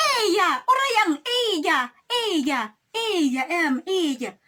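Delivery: high, loud incredulous exclaiming; react, outraged and amazed; stunned disbelief. Retold or imitated.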